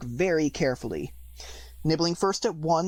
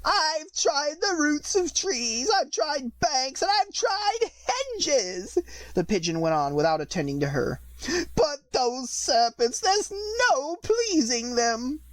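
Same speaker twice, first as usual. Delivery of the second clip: very high, very slow bird voice; fretful pigeon; 11 semitones higher, slower than usual. A narrator's reading. Pigeon grumbles past Alice, high and slow. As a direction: drag out the complaint like a fussy pigeon.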